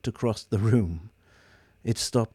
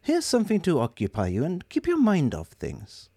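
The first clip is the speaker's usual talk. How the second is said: higher, cheery and kind; bright caring tone; bright, compassionate; 7 semitones higher than usual. Acted. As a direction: coax the gloomy robot along. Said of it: "in a bright, compassionate tone".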